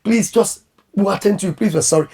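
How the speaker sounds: soft, apologetic pleading; mild imitated pleading; begging. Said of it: "She's begging".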